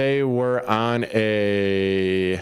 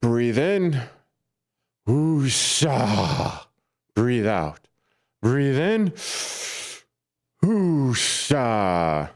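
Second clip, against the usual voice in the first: mock calming breaths; much slower than usual. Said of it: "I'll try and".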